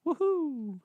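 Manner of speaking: high excited whoop. Pretend. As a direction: whoop it like a hype man. Cheering after his rap.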